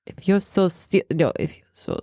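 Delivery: attempted German accent, sliding Russian. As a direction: try a German accent and miss. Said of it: "It's sounding Russian".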